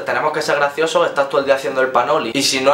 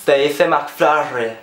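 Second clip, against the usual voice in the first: very slow, prim correcting voice; snobbish correction; much slower than usual. Retold or imitated. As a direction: correct her like a posh hipster. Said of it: "el modernillo que hay al lado".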